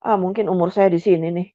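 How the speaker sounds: ordinary talk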